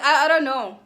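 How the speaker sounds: high mock-clueless stammer; playing dumb. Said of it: "This girl acts dumb".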